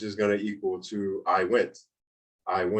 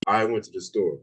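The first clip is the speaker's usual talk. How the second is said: emphasis on "I", the sentence falling after it; stress on I. Shown as a demonstration. Teacher showing who did it, with emphasis on "I". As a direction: land on "I" and let "store" drop. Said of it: "putting more emphasis".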